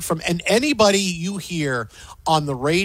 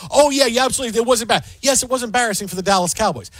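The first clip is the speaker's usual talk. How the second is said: mocking hot take; 3 semitones higher, faster than usual. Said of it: "who says".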